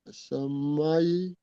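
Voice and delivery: Achamaï said slowly, syllable by syllable; slow Achamaï, each syllable clear; over enunciating. Shown as a demonstration. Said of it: "tu finis après".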